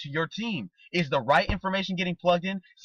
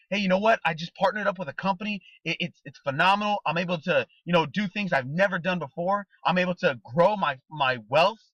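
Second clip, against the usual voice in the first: excited. Shown as a demonstration. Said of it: "So be exciting".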